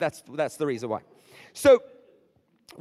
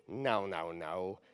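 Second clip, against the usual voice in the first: quiet firm no; 9 semitones lower, 8 dB quieter, much slower than usual. Retold or imitated. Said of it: "looking at Satan right in the eye and said".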